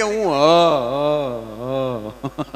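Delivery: comic stutter; stammering. Retold or imitated. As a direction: stutter on "હ" and fade. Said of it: "તોતડી જીભ".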